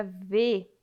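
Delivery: "ver" with a closed E; closed vowel in "ver". Shown as a demonstration. Teacher showing pupils the circumflex sound, closed vowel in "ver". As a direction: say "ver" with E as in "ê", not open. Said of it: "um som fechado".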